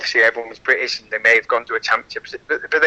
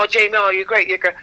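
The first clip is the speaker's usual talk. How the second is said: mock fan gush; 5 semitones higher, faster than usual. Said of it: "when people go".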